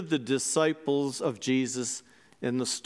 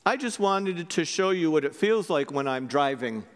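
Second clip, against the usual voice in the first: calm. Acted. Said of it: "he very calmly said".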